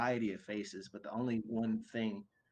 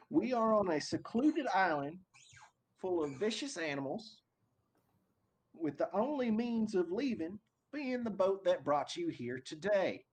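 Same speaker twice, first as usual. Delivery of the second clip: much higher, booming overseer announcement; big booming voice; 8 semitones higher than usual. Acted. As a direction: boom it out like a smug overlord. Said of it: "big booming voice".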